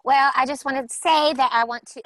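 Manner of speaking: hillbilly voice. Acted. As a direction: slip into a hillbilly accent by accident. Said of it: "I'm doing my hillbilly voice".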